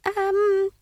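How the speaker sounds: high, flustered, stammering wizard; a jittery young wizard voice; nervous wizard. A narrator's reading.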